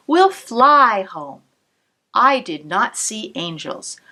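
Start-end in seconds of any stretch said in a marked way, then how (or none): 0.1-1.4 gentle promise. Acted. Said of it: "said my grandmother".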